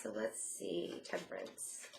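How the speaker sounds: very soft, low, slow murmur; absent murmur to self. Real, not acted. Reader checking the Temperance card, murmuring to self. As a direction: think aloud under your breath, slowly. Thinking aloud while drawing a card.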